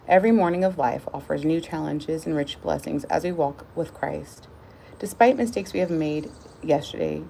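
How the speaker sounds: measured read-aloud voice; devotional reading. Real, not acted. Reader shares the daily devotional with viewers, earnest read-aloud. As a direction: read it out evenly, lifting the start of sentences.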